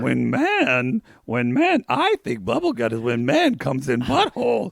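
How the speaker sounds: puppet sage, starting low; Yoda. Acted. Co-host philosophising on bubble guts in Yoda voice. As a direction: ponder like a wise little creature. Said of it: "Who knew I could do Yoda".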